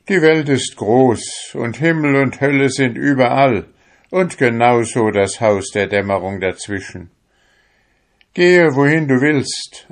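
sending it away. Acted. Fisherman loudly orders his soul to go. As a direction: proclaim it and send the soul off.

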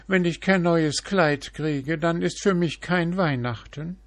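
a spoilt peacock demanding; vain peacock. A narrator's reading. Peacock voiced.

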